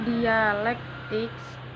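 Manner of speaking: dialektiks drawn out very slowly, English ending; English pronunciation. Shown as a demonstration. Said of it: "dalam bahasa Inggris". (dialektiks dengan lafal Inggris, sangat pelan)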